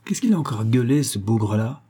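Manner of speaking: a touch of a furious man yelling up the stairs; mild mock anger, lightly voiced; understated angry shout from below. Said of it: "Une voix furieuse, celle d'un homme".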